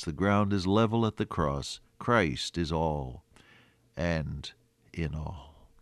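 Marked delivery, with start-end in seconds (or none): 2.0-5.7 slow, soft near-whisper; hushed reverence. Real, not acted. Preacher hushing his congregation on a sacred truth, slow whisper. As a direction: let it sink to a slow whisper.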